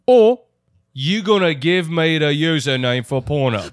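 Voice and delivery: badly faked British threat; hammed-up bad British accent; awful British accent. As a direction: put on a terrible British villain voice. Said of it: "awful British accent".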